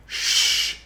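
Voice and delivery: hushed, high shooing away; brother shushing. Acted. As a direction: shush them, then softly shoo them off. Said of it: "And he's going".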